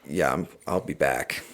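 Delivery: a cold, hushed promise from the dark; eerie spirit voice. Retold or imitated. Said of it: "it was like".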